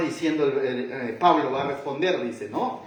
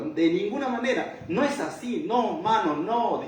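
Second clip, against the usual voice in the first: casual refusal; 5 semitones higher than usual. Retold or imitated. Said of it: "eso es lo que está diciendo Pablo".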